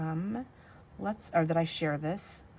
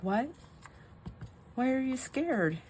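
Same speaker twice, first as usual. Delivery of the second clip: slower, higher question to a little one; concerned mom; 7 semitones higher, slower than usual. Retold or imitated. Mom asking her scared toddler why, lightly imitated concern. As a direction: gently ask like a mom. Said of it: "And she was like".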